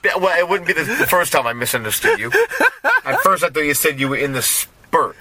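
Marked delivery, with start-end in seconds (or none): 4.4-5.1 "spurt", spirit squashed into one syllable; "spurt" with the second vowel of spirit swallowed; misheard accented spirit. Retold or imitated. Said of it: "it was spirit because of your accent".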